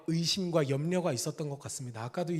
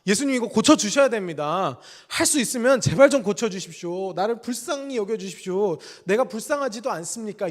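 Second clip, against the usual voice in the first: higher, louder, begging Jesus to heal his son; desperate pleading father; 4 semitones higher, 4 dB louder than usual. Retold or imitated. Father begging Jesus for his son, desperate plea. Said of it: "간절하게 애원했을 겁니다".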